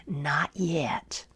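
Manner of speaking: soft low whispered not yet; quiet whisper. Acted. Potter quietly refusing the dizzy teacup, whispered. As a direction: breathe it out calmly. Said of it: "said quietly".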